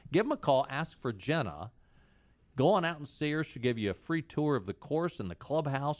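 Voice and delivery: upbeat live sponsor read; radio ad read. Acted. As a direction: sell it like a radio ad. Reads a sponsor ad.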